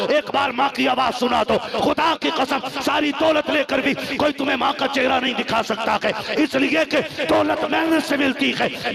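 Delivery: loud, high, impassioned sermon delivery; full-force preaching. Acted. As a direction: drive the warning home, pitched high and loud.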